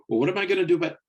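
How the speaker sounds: a parent's mock anxious outburst; worried parent. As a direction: blurt it like a panicking parent. Parent fretting, quoted.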